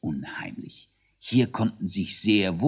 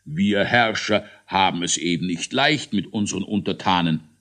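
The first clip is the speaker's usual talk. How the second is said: sigh. Acted. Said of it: "seufzte der Großmogler".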